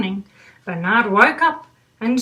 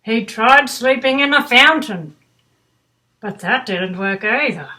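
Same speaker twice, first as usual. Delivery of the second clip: put-on reading to children. A narrator's reading. Reads picture book aloud.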